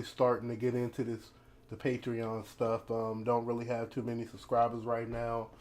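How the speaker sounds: talking through a grill; words slurred by a teeth grill; wearing teeth grill. Real, not acted. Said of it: "talking funny 'cause I got my grill in".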